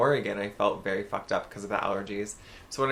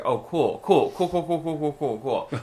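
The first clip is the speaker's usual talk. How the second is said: sarcastic cool; 4 semitones higher, 4 dB louder than usual. Retold or imitated. Sarcastic reaction to asthma news.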